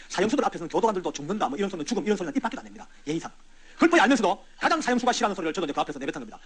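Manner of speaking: ordinary talk, nothing marked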